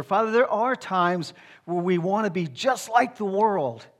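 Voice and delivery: earnest pastoral prayer, rising and falling. Real, not acted. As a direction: pray aloud for the church. Leads the congregation in prayer.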